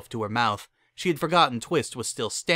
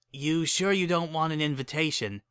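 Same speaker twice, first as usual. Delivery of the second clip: Lyra voice; 5 semitones higher than usual. Acted.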